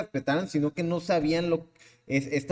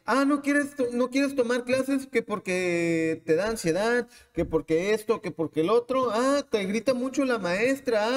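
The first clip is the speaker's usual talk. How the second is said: sugary high mock voice of a school cashing in; condescending institution voice, much higher; 6 semitones higher than usual. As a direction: play the fake-caring school, pitched way up. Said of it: "porque dicen".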